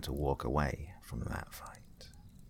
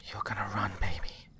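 through gritted teeth; 3 semitones higher than usual. Acted. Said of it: "his mum said through gritted teeth".

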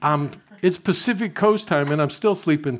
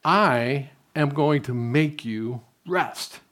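slow, calm voice of God; slow and deliberate, as God speaking; God's voice; much slower than usual. Retold or imitated. Preacher voicing God telling him to rest, slow and calm. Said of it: "here's what I heard".

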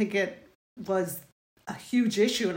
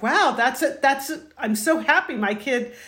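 delighted; 5 semitones higher, 5 dB louder than usual. Retold or imitated. Mother retells her delighted reaction.

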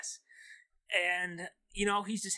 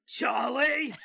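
angry call; 5 semitones higher, 3 dB louder than usual. Acted. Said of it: "then you hear".

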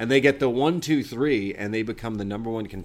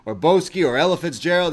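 imitating Bron, higher and louder with excitement; excited mock quote; 6 semitones higher, 6 dB louder than usual. Bron rattling off movie references to Tony, mock excited. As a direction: retell Bron's eager gangster-movie rambling with a lift. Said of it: "And Bron says".

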